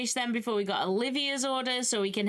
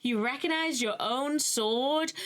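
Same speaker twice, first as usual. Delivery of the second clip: mock-impressed, pitched up and drawn out; sarcastic; 5 semitones higher, much slower than usual. Baron mocks Arthur for recognizing his own sword, sarcastic. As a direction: feign amazement to belittle. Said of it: "doesn't hear the sarcasm in his voice".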